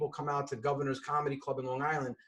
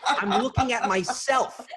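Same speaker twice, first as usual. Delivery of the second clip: high, loud indignant retort; exasperated outburst; 8 semitones higher, 5 dB louder than usual. Retold or imitated. Customer telling support what the dead screen shows, loud exasperation.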